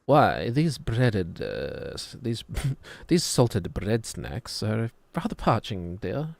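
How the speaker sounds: slow, hammed-up posh British; posh British accent. Streamer redoing a pretzel line, mock posh British accent. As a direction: put on a plummy British accent, groping for words. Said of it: "weirdly posh for some reason".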